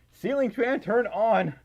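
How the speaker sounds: mock commanding, high and loud; pretend voice command. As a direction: call it out like commanding a smart device.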